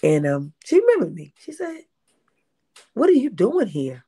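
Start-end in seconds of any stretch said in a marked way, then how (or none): 2.9-4.0 high-pitched, appalled questioning cadence; imitated disdainful shock. Imitating a former extra spotting her, shocked and high-pitched. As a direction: mimic someone shocked to find you here. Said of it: "This is how she said, this is a cadence".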